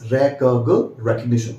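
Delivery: recognition broken up, rek-ug, then rek-ug-NI-shun; correct pronunciation. Shown as a demonstration. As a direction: sound out the start of recognition, then the whole word. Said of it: "I repeat".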